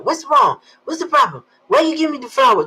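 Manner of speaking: mock barking boyfriend. Boyfriend handed flowers, imitated with a high loud bark. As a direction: bark out the questions like a startled boyfriend. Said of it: "He's always barking".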